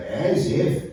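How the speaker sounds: put-on Indigenous accent. Shown as a demonstration. Comic teaching the audience his slang, Indigenous accent. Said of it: "with that fucked up accent".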